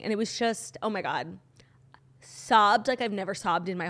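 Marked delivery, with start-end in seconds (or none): 0.8-1.4 breathy whisper, near tears. Real, not acted. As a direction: whisper it as if overcome. Emotional recounting.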